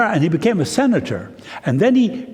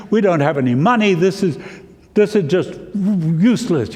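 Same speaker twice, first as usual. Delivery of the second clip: acted discouraged complaint, slightly raised; frustrated. Discouraged son complaining to his mother, frustrated. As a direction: pile up the grievances in mild exasperation. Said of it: "He was frustrated".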